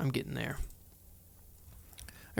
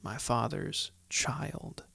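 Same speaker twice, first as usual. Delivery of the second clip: soft whisper; 3 semitones lower, 8 dB quieter, slower than usual. Real, not acted. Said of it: "The truth is".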